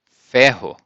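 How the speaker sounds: ferro with a throaty rr, FEH-ho; Portuguese ferro. Shown as a demonstration. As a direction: model word ferro. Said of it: "How do you say iron".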